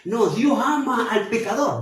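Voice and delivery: a hint of the opponent's claim; mistaken theologians. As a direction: voice the confused theologian lightly. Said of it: "algunos teólogos se confunden y dicen".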